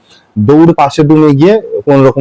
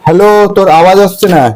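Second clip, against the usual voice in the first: fake bad line; 4 semitones higher, faster than usual. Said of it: "টাকার কথা বলা মাত্র তোমার নেটওয়ার্ক জ্যাম হয়ে গেছে না?".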